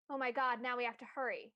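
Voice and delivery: excited. Acted. Reading good news.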